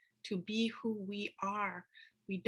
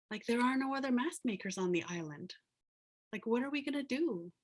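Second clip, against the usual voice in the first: higher, mildly panicked retelling; retold alarm; 5 semitones higher, 3 dB louder than usual. Youth reacting to the mask maker's death, alarmed. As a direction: voice a young man's dismay, pitch climbing.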